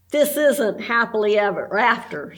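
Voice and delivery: a sad, sighing line. Acted. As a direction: let it out on a sigh. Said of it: "sighed Judy".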